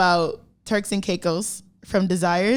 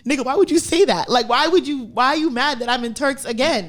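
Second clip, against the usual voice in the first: indignant; 2 semitones higher than usual. Retold or imitated. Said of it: "I'd be like".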